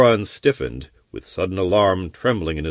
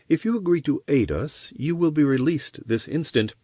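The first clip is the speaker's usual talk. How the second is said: higher, lightly voiced sorceress; woman voice; 5 semitones higher than usual. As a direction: persuade him as a sly sorceress. Sorceress bargains with prisoner.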